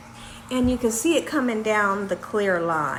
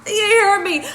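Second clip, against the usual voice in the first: emphatic; 8 semitones higher, 5 dB louder than usual. Real, not acted. Emphatic aside to viewers.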